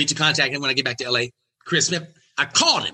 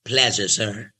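lower, smooth and unhurried; low cool Katt Williams voice; 4 semitones lower, slower than usual. Retold or imitated. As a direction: play it cool like a boss. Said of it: "He says".

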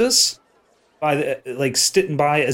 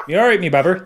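put-on Bristol accent; 3 semitones higher, 3 dB louder, faster than usual. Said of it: "That's it".

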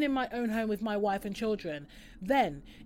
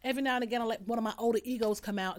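a bit higher, louder, fast, chirpy alter ego; put-on alter-ego voice; 3 semitones higher, 4 dB louder, faster than usual. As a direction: rattle it off as your showy older ego. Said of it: "this is how she talks".

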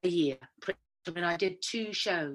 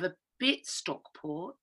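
Stockport lilt with a rise; hint of a Stockport accent; 4 dB quieter, slower than usual. Shown as a demonstration. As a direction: give it a bit of Stockport. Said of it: "I have a whole mix going on".

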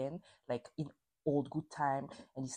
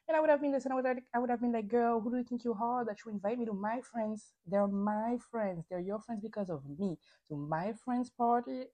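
higher-pitched, affronted challenge; indignant comeback; 4 semitones higher than usual. Acted. Imagined retort to girl inviting him to friend's party, indignant. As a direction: act out an offended telling-off.

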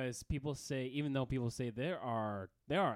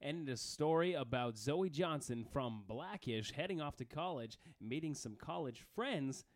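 baseball announcer voice; 2 semitones higher than usual. Pretend. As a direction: announce it like a rec center PA. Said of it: "You sound like, um, a baseball announcer".

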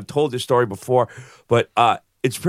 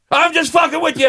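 sudden grin reveal; 13 semitones higher, 4 dB louder than usual. Retold or imitated. Bouncer revealing the joke.

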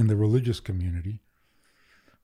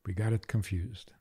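whispered; 3 semitones lower, 7 dB quieter than usual. Real, not acted. Quiet punchline aside.

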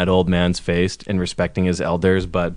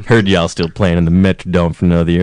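McConaughey impression; 4 semitones lower, faster than usual. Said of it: "You're doing McConaughey now".

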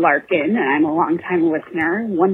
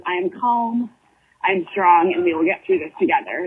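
mantra. Real, not acted. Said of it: "but my mantra was".

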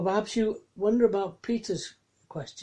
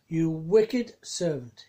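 mild anger; 3 dB louder, slower than usual. Acted. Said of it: "In anger".

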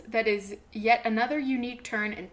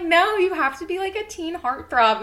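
higher, louder dismissive voice; mock studio execs; 7 semitones higher, 6 dB louder than usual. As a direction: brush him off like a producer. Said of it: "they were like".

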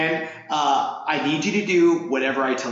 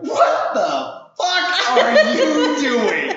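slow, louder, higher, laughing disbelief; incredulous yell; 10 semitones higher, 5 dB louder, much slower than usual. Retold or imitated. Coach catching Amber climbing back down, incredulous yell. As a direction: stretch it out in laughing shock. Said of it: "I'm like".

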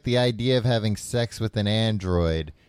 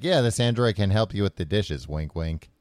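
leering smutty joking. Pretend. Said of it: "and it would be like".

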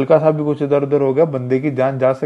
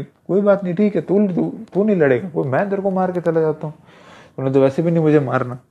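higher-pitched, offhand bully voice; sneering attacker; 3 semitones higher than usual. Retold or imitated. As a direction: toss it off like a thug who doesn't care.

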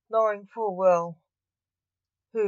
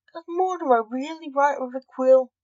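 higher, louder character voice; curious chicken; 7 semitones higher, 7 dB louder than usual. A narrator's reading. Chicken asking about the quill on the desk, high and curious. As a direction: pipe up with keen curiosity.

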